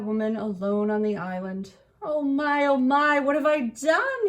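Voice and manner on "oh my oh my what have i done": high, loud remorseful moan. A narrator's reading. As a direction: moan in guilt. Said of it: "he moaned".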